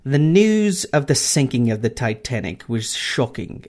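a weak stab at an Irish lilt; lightly put-on Irish accent. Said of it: "This is a terrible Irish accent".

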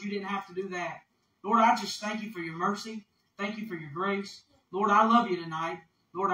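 hushed, earnest prayer voice; humble prayer. Real, not acted. Preacher thanking the Lord before preaching, humble prayer.

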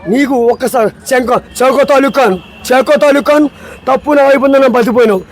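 dramatic hero rebuke, lightly voiced; Chiranjeevi dialogue. Guest performs the Indra rebuke scene for the show, dramatic. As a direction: scold like a righteous film hero. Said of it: "megastar Chiranjeevi".

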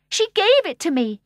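high, loud tearful voice; weeping boy. A narrator's reading. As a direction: blurt it through tears. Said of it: "he wept".

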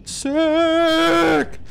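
high yelp of delight; excited cheer. Real, not acted. Gamer cheer.

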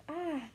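a satisfied "ah" after a fiery gulp; gasp after a drink. A narrator's reading. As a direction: let out an appreciative gasp. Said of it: "gasped the".

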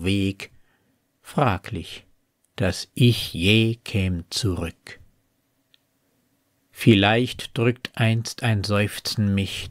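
measured poetry reading, pausing between phrases; poem recitation. Acted. Reciting a poem about two paths in a wood, measured poetry reading.

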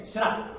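"Sra" ending on a held, unreleased K; held final K. Shown as a demonstration. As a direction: stop "Sra" short on a K without releasing it. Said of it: "hold the K".

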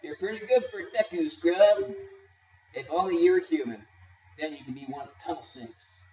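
lightly voiced cocky kid; kid gang leader voice. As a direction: read game lines as a bratty kid. Voicing game characters' dialogue.

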